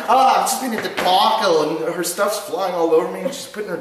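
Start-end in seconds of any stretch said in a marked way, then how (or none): 0.1-1.6 high, loud mock fluster; flustered traveler bursting in, hammed up; imitated Aussie woman. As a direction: exclaim it high like a frazzled passenger. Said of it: "She's like".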